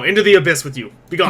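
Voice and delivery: loud, fast, laughing dismissal; laughing banishment. Acted. GM laughing off a player into the abyss. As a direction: cast them into the abyss with a laugh.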